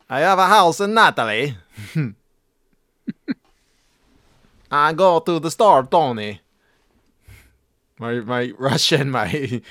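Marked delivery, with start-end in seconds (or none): 0.1-6.4 mumbled mobster voice; Fiorio impression. Mimicking a hard-to-hear Sopranos character. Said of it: "usually it's Fiorio".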